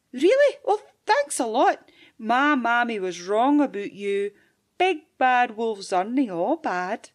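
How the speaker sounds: put-on high, bright surprised child; thrilled wee girl; delighted little girl.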